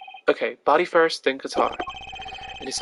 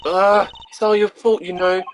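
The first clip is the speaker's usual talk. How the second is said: grumpy blame; 5 dB louder than usual. Acted. Grumpy character blaming him.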